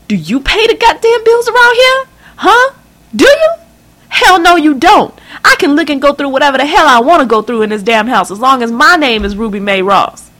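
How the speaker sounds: very high, loud tearful scream; screaming, crying mother. Acted. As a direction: scream it at her daughter, voice cracking. Mother screams about the bills.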